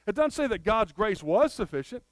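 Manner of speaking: "was" punched as the word being denied; stress on was. Shown as a demonstration. Preacher ruling out past grace, stress on "was". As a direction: lean hard on "was" to rule out the past. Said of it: "It says God's grace is".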